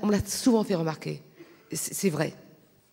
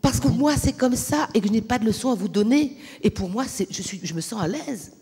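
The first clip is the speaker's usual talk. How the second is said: raised, firm pushback with pitch up; heated retort; 3 semitones higher than usual. Real, not acted. Woman answering an audience member, raised and indignant. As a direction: defend yourself hard against the man's objection.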